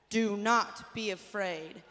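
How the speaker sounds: loud, slow, firm model line. Shown as a demonstration. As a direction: say it boldly for the kids to echo. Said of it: "Say that".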